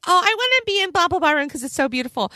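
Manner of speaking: mildly whiny mock caller, starting high; snippy, whiny. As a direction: imitate a whiny client with a light touch. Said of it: "really snippy, really whiny".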